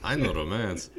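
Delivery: put-on a touch of French accent, proud. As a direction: play a smug Frenchman with a light French accent. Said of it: "he says he's French".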